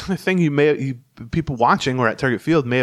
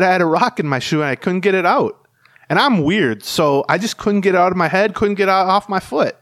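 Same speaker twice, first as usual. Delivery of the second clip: imitating the pitcher; 5 semitones higher, 3 dB louder than usual. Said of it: "But imagine this".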